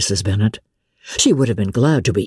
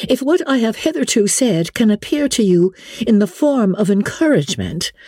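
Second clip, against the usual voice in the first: put-on higher, spirited young woman protesting; Elizabeth's raised voice cutting off a suitor, a little heated; 9 semitones higher than usual. A narrator's reading. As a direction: push back with a touch of heat. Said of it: "cried Elizabeth with some warmth".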